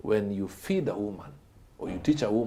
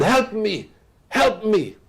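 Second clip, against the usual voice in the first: a retold cry for help, pitched higher; higher shouted plea; 12 semitones higher, 5 dB louder, slower than usual. Man in the ditch calls to passer-by, retold shout. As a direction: call up from the ditch. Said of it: "This guy shouted".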